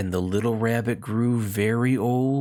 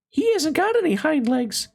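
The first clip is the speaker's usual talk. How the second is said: called out. A narrator's reading. Wild rabbit calls out to his friend, high and teasing. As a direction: call it out to the others, mocking. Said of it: "he called out".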